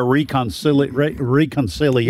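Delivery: "reconciliation" broken into extra, lingering syllables; drawn-out reconciliation. Retold or imitated. Co-host teases a caller's long word, drawn-out "reconciliation". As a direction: stumble and stretch through "reconciliation". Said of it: "into an eight-syllable word".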